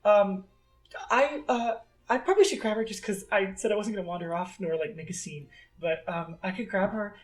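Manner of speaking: lightly voiced hesitant child; timid little girl. Little girl explaining where her mom is, timid. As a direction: ramble shyly like a small kid.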